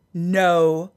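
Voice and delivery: slow, drawn-out trainer imitation; lightly imitated trainer, unhurried and final; stern trainer's delivery. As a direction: lay it down slowly, word by word. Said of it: "That's how he talked".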